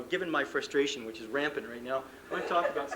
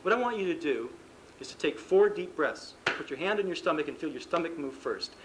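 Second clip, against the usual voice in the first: calm coaching instructions. Shown as a demonstration. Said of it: "saying something like".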